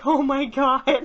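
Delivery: startled audience. Pretend. Imagined audience seeing writer appear.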